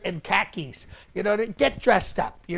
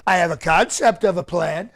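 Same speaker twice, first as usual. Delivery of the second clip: confident delivery. Shown as a demonstration. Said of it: "that's how you have to deliver it".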